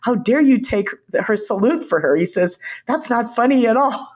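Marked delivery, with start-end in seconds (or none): 0.0-2.2 retold indignant rebuke, pitched higher; mock outrage at a stolen salute. Admiral Mullen scolding the husband, mock indignant. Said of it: "Admiral Mullen became indignant". 2.9-4.1 indignant. Retold or imitated. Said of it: "Admiral Mullen became indignant".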